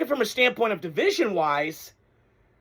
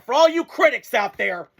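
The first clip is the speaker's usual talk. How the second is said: defiant jab; 2 semitones higher than usual. Real, not acted. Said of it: "I wanna say this about Sam Darnold".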